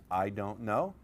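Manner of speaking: "I don't know" set apart and marked; stress on I don't know. Shown as a demonstration. Coach to seminar, underlining the phrase with stress. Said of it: "Underline the words".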